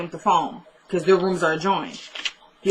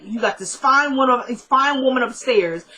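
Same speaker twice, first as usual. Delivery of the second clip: higher, emphatic retold scolding; scolding mother; 3 semitones higher than usual. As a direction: act out a mother laying into her son. Retold mother scolding her son.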